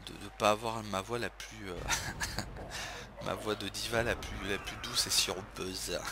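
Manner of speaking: hoarse from a burning throat; sore throat voice. Real, not acted. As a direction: speak through a sore throat. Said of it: "J'ai un peu la, la gorge en feu".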